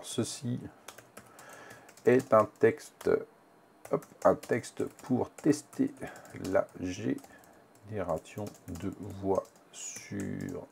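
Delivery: slow, halting, word by word; typing aloud. Real, not acted. Trainer typing a test text for voice generation, slow and halting. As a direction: spell the sentence out slowly as you type.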